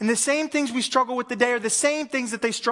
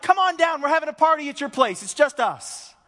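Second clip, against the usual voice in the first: casual invite; 6 semitones higher, 4 dB louder than usual. Pretend. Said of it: "Instead, he's like".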